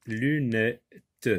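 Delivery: LUNETTES sounded out as LU, NE, TTE; découpage en syllabes. Shown as a demonstration. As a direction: detach the final T of LUNETTES as its own beat. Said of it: "Et puis vous avez t". (« lunettes » découpé : lu... nè... te)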